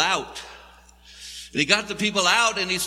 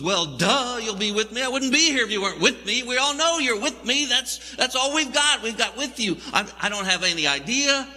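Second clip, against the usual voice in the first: snarky, louder, faster complaint; exasperated Moses; 4 semitones higher, 3 dB louder than usual. Acted. Moses snapping back at God, sarcastic and exasperated. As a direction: roll your eyes at God.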